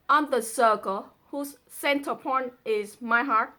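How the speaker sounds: lifted, feeling recital; poem reading. Acted. Daughter reading the man's lines, tender recital. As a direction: read the lover's plea tenderly.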